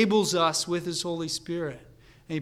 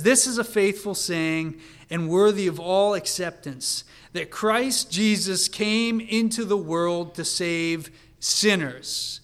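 louder, emphatic worked-up reading; 2 semitones higher, 7 dB louder than usual. Acted. Preacher voicing Paul getting worked up over his saying, worked up. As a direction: declare it with mounting fervour, loudly. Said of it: "Paul is getting worked up here".

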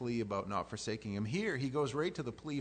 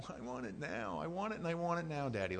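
put-on annoying kid; 4 semitones higher than usual. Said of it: "the annoying one".

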